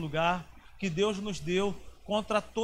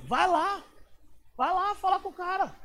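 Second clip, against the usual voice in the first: imitating mother; 10 semitones higher than usual. Mother urging him.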